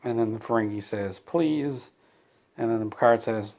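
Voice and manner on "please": high, mock-pleading please; lightly hammed-up begging whine; whiny please. Ferengi begging Picard to buy weapons, mock whine. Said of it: "or whines a lot".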